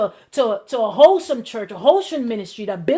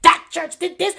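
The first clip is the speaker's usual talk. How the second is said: higher, emphatic protest; mock indignant vow; 4 semitones higher, 4 dB louder than usual. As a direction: imitate an indignant complainer, stretching NEVER. Acting out an offended ex-churchgoer.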